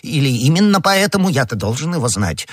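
high-pitched, insistent torrent of argument; agitated crying out. A narrator's reading. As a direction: gabble your proof frantically, pitched high. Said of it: "вскричал Бонасье".

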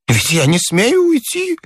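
put-on high, tearful old man's plaint; pleading, near-weeping old man; nearly crying. A narrator's reading. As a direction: whimper it high, on the verge of tears. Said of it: "чуть не заплакал он".

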